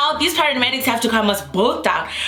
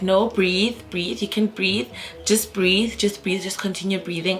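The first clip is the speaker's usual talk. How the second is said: retold calming; 4 dB quieter than usual. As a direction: softly coach someone through breathing. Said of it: "he's trying to calm me down".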